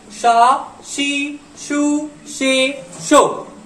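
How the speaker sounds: का की कु के को drawn out one by one; slow syllable demo. Shown as a demonstration. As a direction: read का की कु के को slowly like a teacher. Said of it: "ये प्रोनाउंसिएशन बहुत इंपॉर्टेंट होता है".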